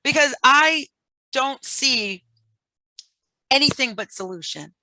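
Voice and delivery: playful 1950s tough-guy detective; high, slow hard-boiled gumshoe, laughing; noir detective. Pretend. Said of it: "I sound like a detective from nineteen fifty".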